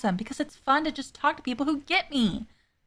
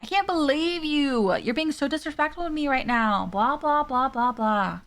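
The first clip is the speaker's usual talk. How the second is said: slow, huffy villain whining at Aravi; offended wizard; 2 semitones higher than usual. Acted. A lightly voiced wizard scolding Aravi mid-battle, offended. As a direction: play the insulted necro wizard, dragging it out. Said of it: "He was like".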